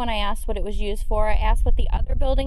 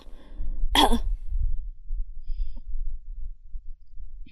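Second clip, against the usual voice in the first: imitated cough; 5 dB quieter than usual. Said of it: "It sounded like a c".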